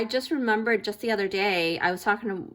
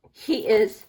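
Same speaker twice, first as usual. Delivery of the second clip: words broken by a burp; a burp escapes mid-word; 5 dB louder than usual. Real, not acted. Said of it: "see, I'm burping".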